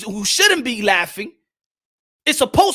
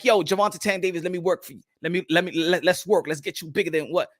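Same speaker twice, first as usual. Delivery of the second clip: mock Jake Paul pitch; 7 semitones lower, 6 dB quieter than usual. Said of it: "he could be like".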